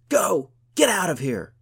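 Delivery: high, very loud bellowed command; shout. A narrator's reading. Yareth drives the bear off her friend, shouting. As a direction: roar at it to drive it away. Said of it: "Yareth shouted".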